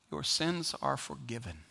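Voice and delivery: soft, slow and low, like a gentle verdict; solemn pronouncement. Acted. Jesus softly pronouncing forgiveness to the paralyzed man, slow and solemn.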